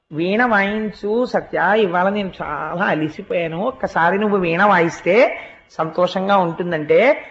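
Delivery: soft, low, unhurried request; mild weary coaxing. Acted. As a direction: ask gently, lightly acting tired. Acts tired request to Satyabhama.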